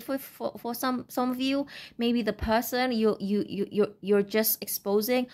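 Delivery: stuttering, repeating words; real stammer, words catching. Real, not acted. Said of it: "I don't know why I'm stuttering".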